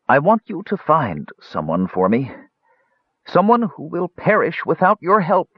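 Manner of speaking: high, desperate plea, building; crying out. A narrator's reading. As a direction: cry out the final words as a dying mage. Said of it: "He cried out the final words".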